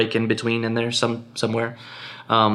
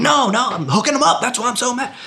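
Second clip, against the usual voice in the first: much higher, put-on voice of an upset colleague; mock bitter colleague; 13 semitones higher than usual. Mimicking a colleague who undercharged clients, high mock whine. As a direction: lampoon the underpaid guy, voice pitched way up. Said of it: "And they're like".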